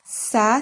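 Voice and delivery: the syllable "Sa" on its own; isolated syllable "Sa". Shown as a demonstration. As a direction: lift out "Sa". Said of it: "syllabe اللي تهمنا".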